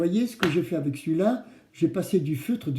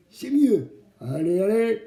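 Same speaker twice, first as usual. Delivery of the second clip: put-on kids show host cheering; 9 semitones higher, slower than usual. Urging kids to answer louder.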